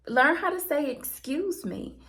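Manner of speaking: firm but polite, drawing out excuse me; nice but serious. Retold or imitated. To the lady who reached across her, politely firm. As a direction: say it nicely but mean it. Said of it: "I said it very nicely".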